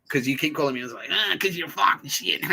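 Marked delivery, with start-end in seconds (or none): 1.1-2.4 high, slow, strained mock outburst; mock exasperation. Answering the pub crowd, mock exasperated outburst. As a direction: blurt the retort in hammed-up exasperation.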